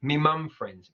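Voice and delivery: me for my in Cockney, me mum; light Cockney, me mum friends. Shown as a demonstration. Teacher imitating a singer's Cockney line. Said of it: "a great example again of a Cockney accent".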